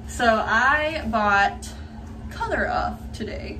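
talking with retainers in; slightly lisped retainer speech; wearing a retainer. Real, not acted. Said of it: "Yes, I sound funny. I have my retainers in".

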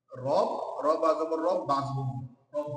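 slow drill naming each letter and sign; spelling out slowly. Shown as a demonstration. শিক্ষক ধীরে ধীরে বানান করে পড়ান. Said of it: "কয়টা হয়?".

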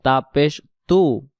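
slow তু, thin and light. Shown as a demonstration. Teacher spelling the light letter slowly, thin. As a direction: draw out a light তু. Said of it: "পাতলা আওয়াজে".

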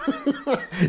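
hammed-up, high-pitched drawn-out yell on the last word; imitated game intro shout. Mimicking how everyone says the game's name, hammed-up shout. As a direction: blow up the game's name into a silly cry, then laugh. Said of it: "Vous avez remarqué que maintenant, tout le monde fait ça".

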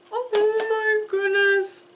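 very high, drawn-out cooing squeal; adoring squeaky voice. Real, not acted. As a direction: coo high as if to a tiny pet. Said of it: "I'm sorry I'm talking like this".

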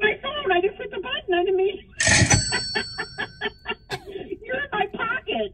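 high squeals of laughter through the words; giggling, mortified, high-pitched; laughing hard. Real, not acted. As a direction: laugh helplessly while explaining the pocket dial. Pocket-dialed back on air, laughing.

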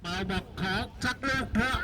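high, slow building call; excited commentary. Real, not acted. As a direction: lift the voice for the shot. Commentator reacts to a shot. (พากย์ตื่นเต้นเสียงสูง)

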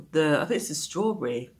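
chewing while talking; biting food mid-sentence; mouth full of donut. Real, not acted. Seen 2: bites donut at -1, donut at mouth throughout labelled words.

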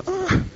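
soft, high-pitched "ah" of recognition; gasp of realization. Acted. Reader struck by a familiar verse, soft high gasp of realization. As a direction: let out a quiet, high "ah". Sudden realization while reading scripture.

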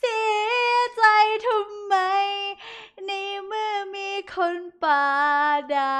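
high, loud fake sobbing whine; mock heartbroken wail. Streamer hams up heartbreak at a viewer, high mock wail. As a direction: overplay the hurt for laughs.

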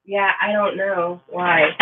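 slow, soft yawn-stretched words. Real, not acted. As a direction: let a yawn pull the words out. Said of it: "There's another one".

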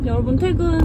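high, happy clock-out call; gleeful announcement. Real, not acted. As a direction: announce freedom with glee. Announcing end of workday.

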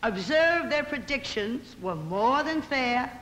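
measured, sing-song verse reading; poem recitation. Acted. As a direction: recite it like a witty moral tale in rhyme.

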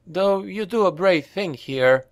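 lightly voiced boy. A narrator's reading. Boy concedes.

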